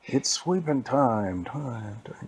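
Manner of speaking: slow, loud call fading as echo; echo from a hole. Acted. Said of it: "way down the, in this hole".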